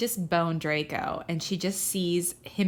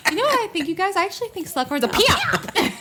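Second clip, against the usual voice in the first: higher, giggly announcement; laughing; 11 semitones higher, 4 dB louder than usual. Real, not acted. Friends joking about Slughorn, laughing throughout. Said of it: "laughing playful declaration".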